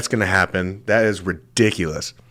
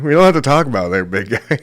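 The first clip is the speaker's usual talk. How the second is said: quick reassurance; 5 semitones higher, faster than usual. Retold or imitated. Fast reassuring aside to customer.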